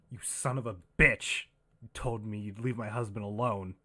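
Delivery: furious yell. Acted. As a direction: scream it at him, enraged. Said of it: "she yells at you".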